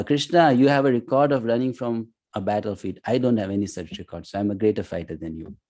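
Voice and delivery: mock boast, quick at the end; a hint of swagger, tossed off fast. Arjuna boasting to Krishna about the battlefield, mild mock swagger. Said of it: "and boast".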